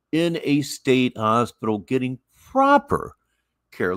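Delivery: "proper" said with weight, to underline it; stress on proper. Real, not acted. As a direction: lean on the word "proper" before "care". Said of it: "Let's really emphasize the word proper now".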